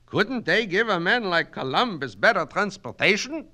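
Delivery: put-on high, loud Yiddish-accented orator; Yiddish-accented Kaplan, holding forth grandly; Yiddish-accented immigrant student. Student lecturing his night class in a Yiddish accent.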